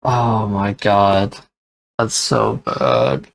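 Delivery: dismayed. Real, not acted. Aftermath, slow.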